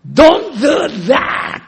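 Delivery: sudden loud yell, slow and drawn out; shouted English. Retold or imitated. Son yelling at his father across the dinner table, furious. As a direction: bellow it like an angry son. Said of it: "息子がガバーッと".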